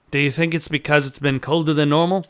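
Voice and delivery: quick, lightly Australian voice; Australian accent. Acted. Joey wondering about his beetles, Australian accent. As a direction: ask it briskly in an Australian accent. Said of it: "gave him an Australian accent".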